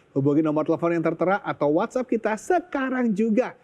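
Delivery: upbeat sales pitch to viewers; infomercial. Acted. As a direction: sell it like a TV ad host. Host's closing sales pitch.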